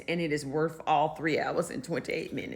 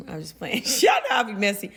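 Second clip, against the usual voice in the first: laughing; 4 semitones higher, faster than usual. Real, not acted. Joking, then laughs it off.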